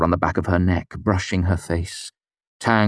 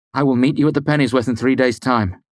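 bold declaration; 6 semitones higher, faster than usual. Acted. Narrator voices his bold farewell.

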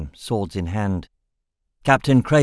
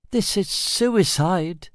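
gasping in fear; 8 semitones higher, much slower than usual. A narrator's reading. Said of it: "he gasped".

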